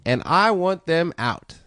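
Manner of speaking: lightly voiced slow Steve Harvey; doing Steve Harvey. For friends, a slow, lightly voiced Steve Harvey joke. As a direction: tell it slow like a host. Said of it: "I'm gonna do Steve's joke".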